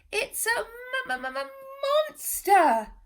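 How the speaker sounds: high stammering squeak breaking into a loud cry; terrified stammer. Acted. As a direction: stutter in fear, then blurt the word.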